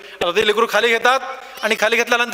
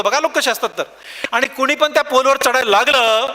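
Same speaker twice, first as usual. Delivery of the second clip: ordinary talk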